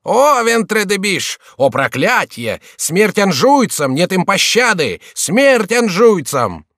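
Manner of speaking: high, loud, slow battle cry; menacing shout. A narrator's reading. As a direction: bellow it while beating the minions. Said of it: "кричал грозным голосом". (грозный боевой клич)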